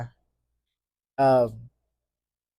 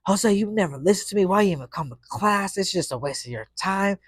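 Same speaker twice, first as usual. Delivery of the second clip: higher, imitating a teacher who is fed up and crying; upset teacher; 6 semitones higher than usual. Teacher giving up on the class, mock tearful. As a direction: mimic her quitting speech. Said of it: "I remember her saying".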